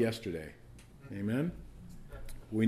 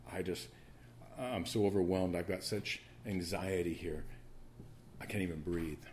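overwhelmed lament; 2 semitones lower, 5 dB quieter than usual. Acted. Preacher voicing Daniel overwhelmed by anxiety, quiet lament.

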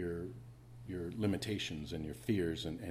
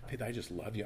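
tender; 5 dB quieter than usual. Retold or imitated. Tender words to daughter.

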